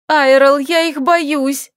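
panicked high cry; terrified pleading hostage. A narrator's reading. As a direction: shriek it in panic. Scared of monsters.

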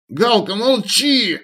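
high, slow pained hiss. A narrator's reading. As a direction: hiss to silence her. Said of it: "прошипела Марьяна".

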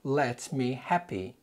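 drawn-out wrong hearings; slow deliberate misheard versions; slow mishearing demo. Shown as a demonstration. Teacher acting out what learners might mishear, slowly. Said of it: "What did you hear".

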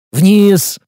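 loud firm order downwards; sharp command. Acted. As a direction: bark it as an order. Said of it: "приказал я".

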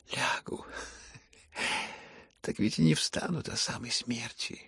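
soft, hushed, exhausted speech; faint, weary voice. Acted. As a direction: barely summon the breath to speak. Слабый Ипполит. (слабый, усталый полушёпот)

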